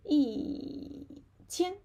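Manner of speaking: yi drawn out and falling, then qian; teacher's demo of falling-tone yi before qian. Shown as a demonstration. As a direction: drop the pitch on yi before qian. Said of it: "E change to falling tone".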